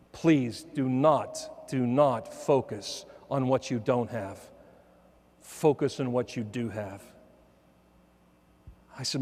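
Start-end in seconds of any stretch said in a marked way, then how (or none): 0.1-7.0 slow, softer pleading words from a mother; earnest plea. Retold or imitated. Mother pleading with her grieving son, slow and soft. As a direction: press each word gently and slowly, like a mother begging her son.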